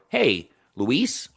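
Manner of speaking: "Hey, Luis" with a rising question tune; different tonality. Shown as a demonstration. Coach shows Maria another greeting, questioning tune. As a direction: lift the end of "Luis". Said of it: "there are different tonalities".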